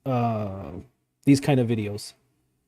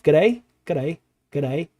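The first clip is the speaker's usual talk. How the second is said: mock Aussie accent; much slower than usual. Shown as a demonstration. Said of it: "that's not too far off".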